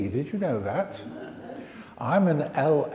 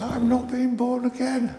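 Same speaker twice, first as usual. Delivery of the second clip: lightly voiced puppet parrot, a touch higher; 8 semitones higher, 3 dB louder than usual. Vicar voicing the puppet parrot Squawk for the children, lightly higher. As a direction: voice Squawk's worry, just a bit higher. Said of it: "He says".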